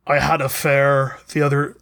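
put-on slipping into a light Scottish accent. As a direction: tell it like a Scotsman, lightly. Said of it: "why am I doing a Scottish fucking accent?".

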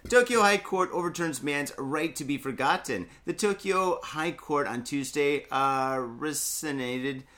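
groggy hungover voice. Real, not acted. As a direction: sluggish from a hangover. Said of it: "Oh, I'm so hungover".

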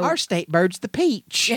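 high, slow drawled pageant voice; pageant contestant. Acted. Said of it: "beauty pageant skit line".

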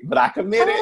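high, loud exclaimed protest; high shout. Real, not acted. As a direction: yelp it out in protest. First take, shouted high.

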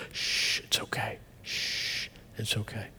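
soft whispered soothing shush; loving shush. Retold or imitated. Mother whispering softly to her crying son to comfort him. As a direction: hush a hurt child tenderly. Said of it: "mom would always go".

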